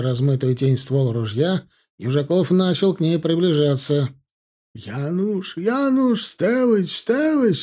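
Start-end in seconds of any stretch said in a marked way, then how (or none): 4.7-7.5 keen over the fallen man, begging him to rise; wailing. A narrator's reading. A boy wailing over the fallen man, begging him to get up. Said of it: "завывал какой-то голос".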